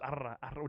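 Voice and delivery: two quick practice rolls of the R in "arr"; building R trill. Shown as a demonstration. Streamer showing the practice stage, brief trilled R. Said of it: "as I built this up".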